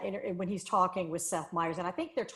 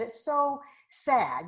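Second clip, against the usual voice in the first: mock sad; 6 semitones higher, much slower than usual. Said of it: "He said".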